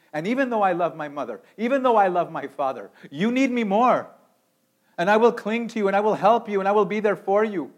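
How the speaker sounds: high, loud pleading vow; cling to her with every word; impassioned Ruth. Acted. Ruth pleads with Naomi and refuses to leave, impassioned. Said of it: "She's saying, she's saying".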